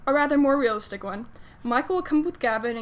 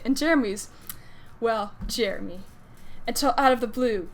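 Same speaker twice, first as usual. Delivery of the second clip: measured fan fiction blurb reading; reading a blurb aloud; story summary read aloud. A narrator's reading.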